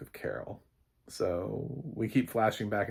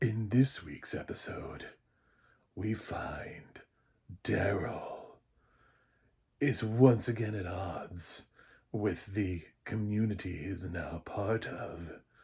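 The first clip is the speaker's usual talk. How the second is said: put-on creepy, spooky storyteller narrator voice. Introducing this week's episode in a put-on creepy voice. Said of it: "can I do the creepy voice?".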